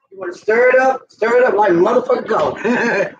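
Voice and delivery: cheering the viewers on to stir like crazy; hyped stirring call. Real, not acted. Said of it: "No, the little kids might be in here".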